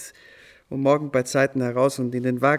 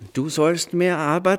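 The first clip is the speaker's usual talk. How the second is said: eager inner thought; 3 semitones higher, 4 dB louder than usual. Retold or imitated. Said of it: "dachte ich".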